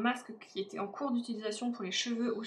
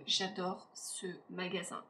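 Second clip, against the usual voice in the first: whispered confession; 4 semitones lower, 5 dB quieter than usual. Real, not acted. Confiding love for the shop.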